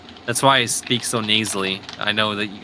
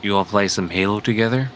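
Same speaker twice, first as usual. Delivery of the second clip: slightly deepened, casual voice; lower tone; 3 dB quieter than usual. Shown as a demonstration. Asking a friend to play Halo, in a slightly lowered tone. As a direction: chat casually from the chest. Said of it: "I speak for a lower tone".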